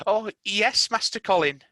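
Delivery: a touch of relief; reassuring nurse. Acted. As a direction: nurse assuring Colin.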